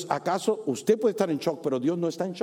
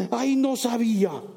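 mock surprise; 7 semitones higher, 4 dB louder than usual. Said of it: "Acaso Dios se va a sorprender".

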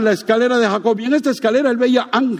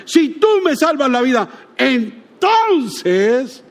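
bargaining prayer; 2 semitones higher, slower than usual. Acted. Mocking Jacob's bargaining prayer.

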